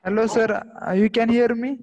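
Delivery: speaking up to be heard. Real, not acted. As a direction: raise the voice so it carries. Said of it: "increase your volume".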